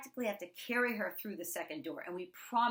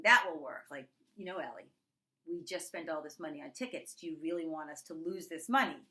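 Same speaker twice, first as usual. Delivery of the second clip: guilt-tripping; 4 dB louder than usual. Retold or imitated. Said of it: "trying to make her feel guilty".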